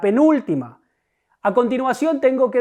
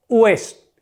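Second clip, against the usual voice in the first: "Hués" suelto, como sílaba recalcada; aísla y marca "Hués"; sílaba tónica aislada. Shown as a demonstration. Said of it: "¿Cuál es la sílaba tónica?". ("Hués" dicho solo, con peso de sílaba tónica)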